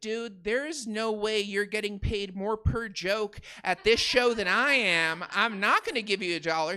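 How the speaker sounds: no way, pal, said with force; firm refusal. Retold or imitated. Comic refusing beggar, firm and loud.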